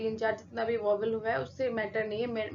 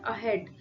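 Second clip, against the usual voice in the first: अहेड with very little sound on अ, more on हेड; stress on हेड; 2 semitones lower, 3 dB quieter than usual. Shown as a demonstration. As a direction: emphasise हेड, the second syllable of अहेड. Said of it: "वो हेड पे कर रहे हैं".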